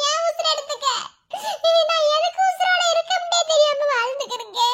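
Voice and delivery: sobbing lament over a lost sister; broken-hearted keening, crying through the words; tearful lament. Acted. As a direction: wail it out, voice catching between words. Wailing over sister's death.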